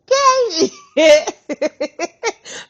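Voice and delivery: loud, high, rolling laugh; long cackle. Real, not acted. Cracking up over the HR story, long loud cackle. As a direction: laugh helplessly at your own story.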